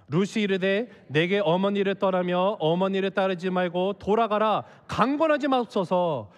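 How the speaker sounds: even, measured recitation; steady reading for a congregation to follow; scripture reading. A narrator's reading. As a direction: read the verses aloud in formal cadence.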